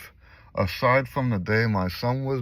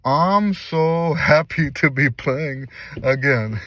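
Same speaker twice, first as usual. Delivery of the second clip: laughing with joy; 2 semitones higher, slower than usual. Real, not acted. Emotional return to playing music.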